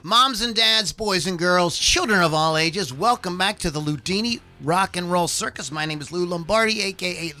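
booming circus ringmaster announcing. Acted. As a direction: call out like a big-top ringmaster. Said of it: "I am your ringmaster".

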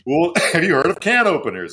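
high, laughing pitchman voice; eager infomercial host. Retold or imitated. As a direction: play a cheesy TV pitchman. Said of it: "And it's like".

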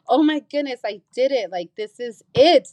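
high-pitched retold amazement; elated realization. Alone in the truck after passing, high elated disbelief. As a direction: gush as the big moment sinks in. Acting out her movie moment.

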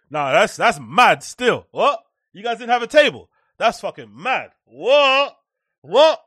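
lightly imitating a flat, unbothered mate, rising to a mock What; dry mock reactions, a hint of disbelief at the end; mocking the flat friend. Host mocking a friend who answers a sad story with that's mad. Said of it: "this guy's out here saying".

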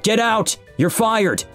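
high-pitched, outraged order; angry roar. A narrator's reading. Boss sacking the supervisor, furious exclamation. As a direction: fire him in a high outburst. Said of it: "Mister Mason roared at Jacob's supervisor".

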